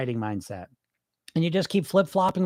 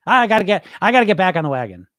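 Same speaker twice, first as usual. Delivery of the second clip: louder, hurried mock resolve; mock dieter; 5 dB louder than usual. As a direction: mimic the dieter's hasty pledge. Mocking the dieter's shallow answer.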